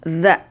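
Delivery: dha from the tongue tip, said clearly; Arabic letter dha, carefully articulated. Shown as a demonstration. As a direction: say dha with the tongue on the upper teeth. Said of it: "di makhrajul huruf".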